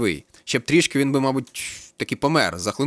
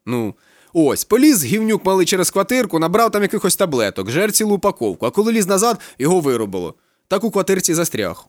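high, loud, worked-up storytelling; agitated police captain; 8 semitones higher, 5 dB louder than usual. A narrator's reading. Captain vents to the student about his son, agitated and loud. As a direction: rant about his son like an exasperated father.

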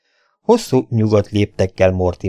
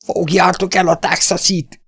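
higher, calling out from outside; outside shout; 10 semitones higher than usual. Acted. Voice outside yells to catch the Texan, higher shout. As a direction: order the others to grab him. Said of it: "kiáltás hangzott fel".

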